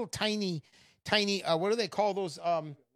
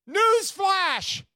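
high, loud announcer call; a loud, high breaking-news call; newsflash announcer; 11 semitones higher, 6 dB louder than usual. Real, not acted. Announcing headlines.

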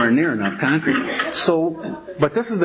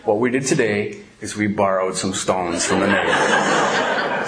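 slow, lower, lightly pious delivery; mock-solemn lesson; 5 semitones lower than usual. Pastor excusing the theft to the boys, mildly mock-solemn. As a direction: draw it out like an innocent little devotion.

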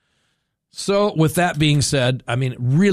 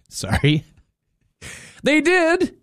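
giggling, pitched up high; laughing apology; 11 semitones higher, slower than usual. Real, not acted. Host cracking up at his own joke, laughing. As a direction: laugh through the sorry.

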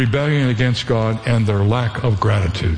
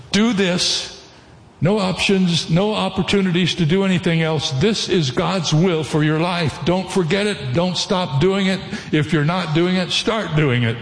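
insistent command; 6 semitones higher than usual. Acted. Voicing the Bible's blunt commands.

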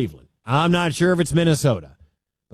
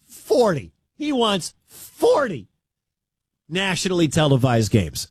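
incredulous; 3 semitones higher than usual. Real, not acted. Disbelief at the demand.

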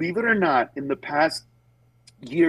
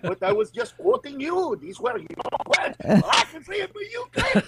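mock protest; 11 semitones higher than usual. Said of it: "you could be like".

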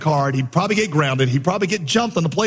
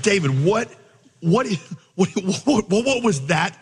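baffled stammer; 3 semitones higher than usual. Retold or imitated. Coach acting out baffled questioning.

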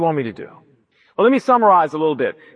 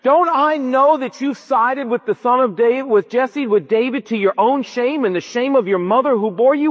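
mock furious father; 3 semitones higher than usual. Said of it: "And Saul went ballistic".

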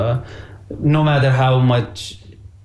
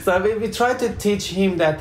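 laughing; 7 semitones higher than usual. Real, not acted. Laughing after a joke.

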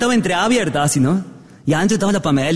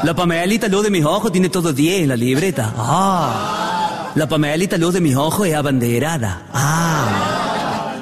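lightly voiced boastful old father; a proud dad showing off, with self-satisfied "ah"s; viejo orgulloso; slower than usual. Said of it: "viejos orgullosos que andan contando a todo el mundo". (padre orgulloso que presume un poco)

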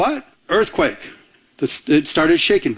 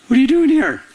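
urgent question; 10 semitones higher, faster than usual. Acted. Pastor voices God's question, pitched up.

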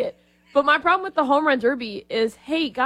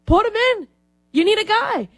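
pitched up, begging to be put in; mock pleading player; 9 semitones higher than usual. Player begging the All-Star team, mock pleading.

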